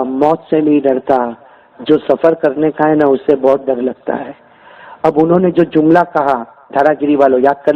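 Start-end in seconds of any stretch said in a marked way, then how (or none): 0.0-4.5 put-on low, slow voice of a dying old man; a dying old man, tired and fearful; old father's voice. Old saint answers, low and slow. (بوڑھے باپ کی دھیمی گہری آواز)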